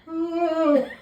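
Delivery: high far-off wail, mimicked; imitated distant scream. Storyteller imitating screams heard from the beach house, mock wail. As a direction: mimic someone screaming across a field.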